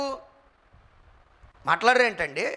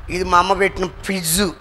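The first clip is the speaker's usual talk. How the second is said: mock bickering wife; 5 semitones lower, 5 dB louder than usual. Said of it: "భార్యాభర్తలకు గొడవ రాగానే".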